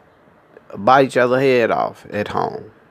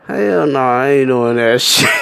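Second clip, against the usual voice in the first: defiant refusal. Retold or imitated. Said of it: "looking at your ass like".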